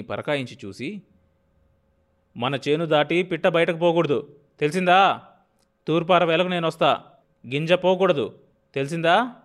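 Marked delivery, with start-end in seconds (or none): 2.4-9.3 loud, higher commanding warning. A narrator's reading. Landlord warning the field workers, loud commanding tone. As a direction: make them feel the threat. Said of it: "అంటూ హెచ్చరించాడు".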